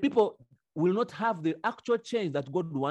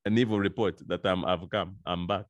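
evil's voice, low; 8 semitones lower than usual. Retold or imitated. Voicing evil returning.

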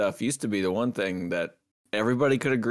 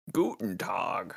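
mock German greeting; 4 semitones lower, 8 dB quieter, slower than usual. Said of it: "And he says".

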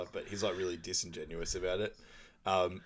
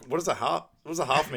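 much higher, louder incredulous question; mock indignant; 7 semitones higher, 6 dB louder, faster than usual. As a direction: demand it in disbelief. Angie demanding explanation.

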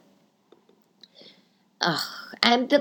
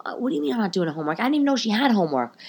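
indignant retort; 3 semitones higher, much faster than usual. Retold or imitated. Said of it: "I said".

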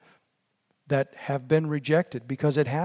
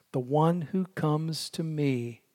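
solemn promise; 4 dB quieter than usual. Acted. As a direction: read it as a gentle vow. Quoting Jesus' promise, slow and fading.

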